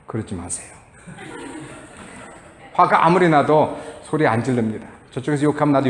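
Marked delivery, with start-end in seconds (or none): 0.1-0.7 very soft, low plea; quiet, restrained request. Shown as a demonstration. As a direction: demonstrate keeping your voice down. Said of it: "저는 조용히 얘기합니다".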